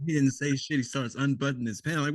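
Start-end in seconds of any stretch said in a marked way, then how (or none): none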